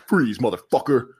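mock deep voice; a hint of a gruff tough guy; super deep voice. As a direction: threaten in a put-on deep voice. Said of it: "this super deep voice".

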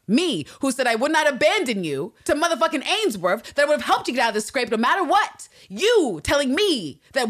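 loud, high-pitched wounded indignation; outraged. Acted. Ann Lister reproaching the woman she stood by, outraged. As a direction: throw the betrayal back, hitting it hard.

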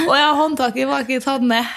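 embarrassed realization, laughing; sheepish laughing aside to herself. Retold or imitated. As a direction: dawn on you the handle was never pressed. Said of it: "ser ned og bare sånn".

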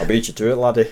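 rough attempt at a Scottish accent; Shrek. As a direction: jokingly put on a Scottish accent. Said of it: "Mike Myers is Scottish".

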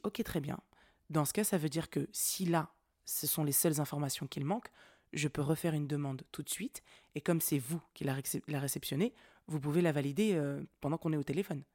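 re-enacted composed, measured negotiation; très calme. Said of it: "j'ai parlé très calmement". (réponse posée, très calme)

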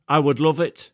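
a half-hearted stab at Keegan's passion; Kevin Keegan impression. Pundit mimicking Keegan for his co-host, hint of impression. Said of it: "terrible impression".

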